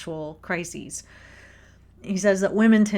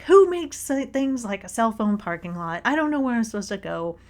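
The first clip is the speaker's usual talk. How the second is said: mad rant; 3 semitones higher than usual. Retold or imitated. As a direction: vent at the whole airport, flustered. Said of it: "I'm mad".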